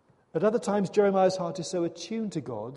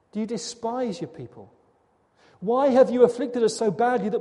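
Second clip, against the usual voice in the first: disbelieving lament; 3 semitones higher, 4 dB louder than usual. Acted. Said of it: "Jeremiah can't believe it".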